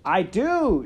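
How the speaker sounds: high, blaring shout; loud shout. A narrator's reading. Serving girl insisting she knows how to whisper, shouting. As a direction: shout it proudly. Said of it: "shouted Midge".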